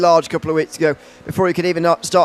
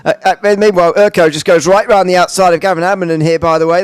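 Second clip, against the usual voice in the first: louder, lifted race call as a car goes round the outside; excited overtake call; 6 dB louder than usual. Real, not acted. Commentator calling a pass live to viewers, louder and excited. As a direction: sell the overtake with a burst of energy.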